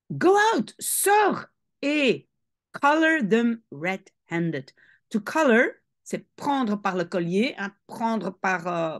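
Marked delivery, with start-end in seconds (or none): 0.1-4.7 the mother hissing at Harry to go; hissed command. Shown as a demonstration. Teacher showing how the mother hisses at Harry. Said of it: "elle parle comme ça".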